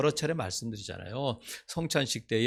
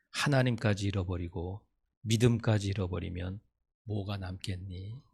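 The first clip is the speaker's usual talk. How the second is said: gentle mother; 3 semitones lower than usual. Retold or imitated. Mother consoling son, holding hand.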